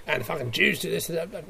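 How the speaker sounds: a light put-on Australian accent. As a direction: toss it off in a mild Australian accent. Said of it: "I don't know why I put on an Australian accent there".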